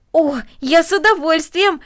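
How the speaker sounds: high, loud, drawn-out delight; delighted exclamation. Acted. Boy accepting the offer of milk, exclaiming delightedly. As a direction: burst out with eager pleasure. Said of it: "воскликнул Дино".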